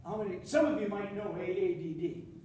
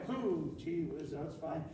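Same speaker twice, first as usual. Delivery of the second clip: mock innocent; 6 semitones lower, 7 dB quieter, slower than usual. Mock innocence at no-hiking sign.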